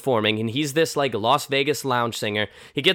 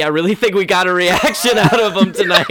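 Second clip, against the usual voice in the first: laughing through the line; cracking up at the punchline; 5 semitones higher, 5 dB louder than usual. Real, not acted. Retelling the punchline.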